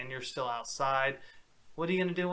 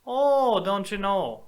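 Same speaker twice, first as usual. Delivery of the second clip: loud, high mock northern accent; exaggerated northern accent; 5 semitones higher, 5 dB louder, slower than usual. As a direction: ham up a Montana hick accent, pitched way up. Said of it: "You're from Montana, and you say".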